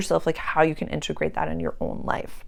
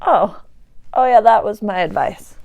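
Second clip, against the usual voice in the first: mock surprised realisation; 4 semitones higher, 6 dB louder than usual. Surprised realisation among friends.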